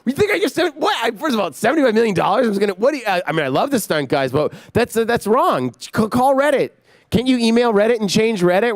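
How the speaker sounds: high, incredulous mock panic, bursting into a yell; hammed-up disbelief at the rumour; Keanu outraged. Director imitating Keanu hearing the Reddit rumour, high mock outrage. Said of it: "He goes".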